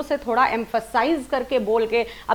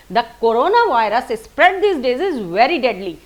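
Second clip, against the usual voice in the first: corona virus and deadly stressed, slow and louder; stress on key words; 4 dB louder, much slower than usual. Shown as a demonstration. Teacher combining pace and highlighting, stressed key words. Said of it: "voice modulation plus word highlighting".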